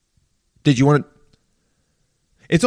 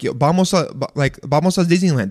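"Disneyland" with a light Spanish lilt; casual Spanish-speaker rhythm and accent. Retold or imitated. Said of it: "say it kind of in that accent".

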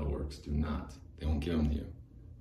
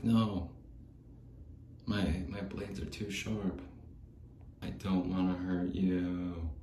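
gentle refusal; 3 semitones higher, slower than usual. Acted. Mascot voiced refusing, slow.

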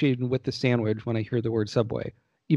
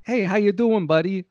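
a higher, lightly voiced tough-guy greeting; Stallone impression; 7 semitones higher than usual. Podcaster tries an impression of Stallone for his co-host, half-hearted. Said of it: "that didn't even sound like Stallone".

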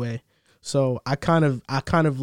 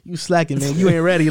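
put-on old head; 3 semitones higher, 4 dB louder than usual. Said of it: "you say that like an old head".

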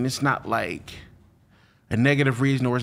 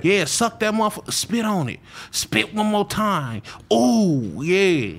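mock porn star egging on; porn actor talk; 6 semitones higher than usual. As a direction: ham up a dirty-talking porn actor.

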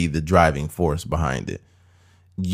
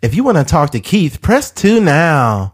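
phone menu voice; 7 semitones higher, 4 dB louder than usual. Retold or imitated. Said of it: "worked for Spectrum".

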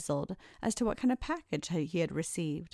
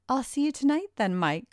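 higher, fast, bright call across the room; 6 semitones higher than usual. A narrator's reading. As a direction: toss it after him as he leaves. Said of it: "called out Karen".

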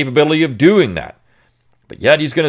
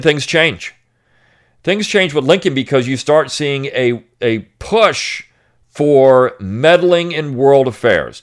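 ordinary delivery

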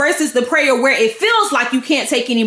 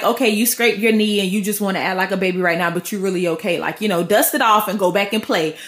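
low, offhand dismissal of a scrape; mildly unimpressed caregiver voice; unfazed reassurance; 5 semitones lower than usual. Acted. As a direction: brush it off in a lower, easy voice. Voicing adult unfazed by child's cry.

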